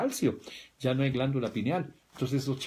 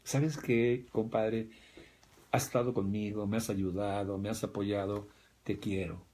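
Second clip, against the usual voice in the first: sober sincere; 3 semitones lower, 3 dB quieter than usual. Retold or imitated. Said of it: "en tu juicio".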